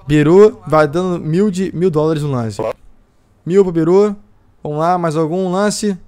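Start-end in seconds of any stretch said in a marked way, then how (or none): 3.4-6.0 drawn-out auction countdown; auctioneer. Acted. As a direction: call the lots like an auctioneer.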